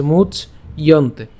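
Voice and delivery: "মুচ ইয়ন্তে" slowly, much then iyonte; syllable-split pronunciation. Shown as a demonstration. Teacher shows the halted ch, split "মুচ ইয়ন্তে". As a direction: close "মুচ ইয়ন্তে" on ch before the y glide. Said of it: "চ হসন্ত পর্যন্ত উচ্চারণ করলাম".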